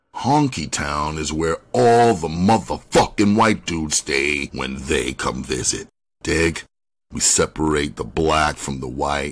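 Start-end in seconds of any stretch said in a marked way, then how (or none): none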